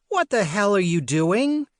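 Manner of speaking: a sharp shout from a mother woken up; startled shout. Acted. Mother bursts in, shocked.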